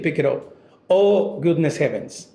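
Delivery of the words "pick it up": calm firm telling. Retold or imitated. Dad calmly telling the littering kid to pick up. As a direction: tell the kid calmly, no anger. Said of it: "He's not even mad. He's just telling the kid".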